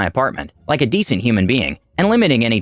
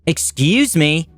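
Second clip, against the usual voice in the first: slow, pointed excuse me, a touch higher; a stranger drawing it out to demand attention; curt excuse me; 5 semitones higher, much slower than usual. Acted. Karen jabbing a stranger's shoulder, slow pointed excuse me. Angry Karen prods narrator.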